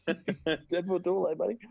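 slow, drawn-out mocking tease; mocking demon. Demon teasing the shrunken lieutenant, slow and mocking. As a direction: needle him slowly with a sneer. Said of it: "All the other demons are giving him shit".

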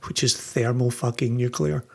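blowing on hot coffee while talking; blowing on hot food. Real, not acted. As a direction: breathe out over a hot drink. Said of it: "heavy breathing into the mic".

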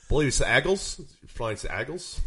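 mock Philadelphia accent on Eagles; Philly pronunciation. Shown as a demonstration. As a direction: correct them with a put-on Philly accent. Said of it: "I think it's pronounced the Eagles".

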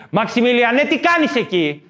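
hammed-up mother calling out. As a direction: call the kid in from the yard. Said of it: "η μάνα".

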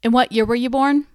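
recruiter voice. Acted. Recruiter asks at enlistment.

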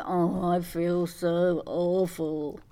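slow, self-pitying man flu whine; man flu moan. Retold or imitated. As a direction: ham up the poorly sufferer. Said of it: "We're not going down the whole man flu".

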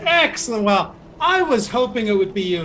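Scourge, pleased. Acted. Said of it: "Master Scourge just looks at you and goes".

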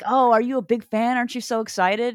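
bubbly fan quizzing a friend; excited fan. Acted. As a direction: act out an enthusiastic fan.

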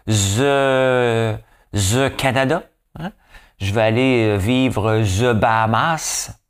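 a hint of a French accent; mock French usage. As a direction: poke fun at how the French put "the" before countries. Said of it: "les Français aiment ça à dire".

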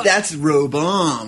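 "That's Roboam" drawn out slowly; slow careful "Roboam". Shown as a demonstration. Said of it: "Do you guys say".

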